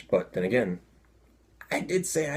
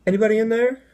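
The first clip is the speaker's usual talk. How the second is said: raised, louder questioning call; calling through door; 7 dB louder, much faster than usual. Retold or imitated. Man knocking at a restroom stall, calling out. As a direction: call out higher to whoever is inside.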